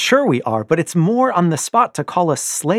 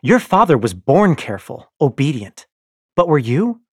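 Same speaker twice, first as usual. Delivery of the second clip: loud, high, patronizing scorn; wife taunts her husband, loud and mocking; taunting wife; 6 semitones higher, 11 dB louder than usual. Io taunts Darrow.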